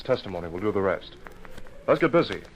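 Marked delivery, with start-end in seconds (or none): 1.9-2.4 a firm, louder call to get moving; rally your partner into action; brisk rally. Acted. Detective urging his partner to get moving, firm and louder.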